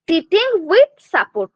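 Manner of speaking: each word drawn out slowly for notes; slow, deliberate classroom dictation. Shown as a demonstration. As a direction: spell it out slowly so students can write. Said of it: "teacher dictating a milestone".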